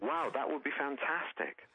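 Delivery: high, slow mock wonder; retold wide-eyed excitement. Comedian recalling his hope of future fame, thrilled.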